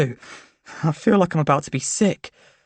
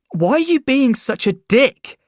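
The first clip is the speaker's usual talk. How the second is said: angry demand; 7 semitones higher than usual. A narrator's reading. Arguing with boyfriend.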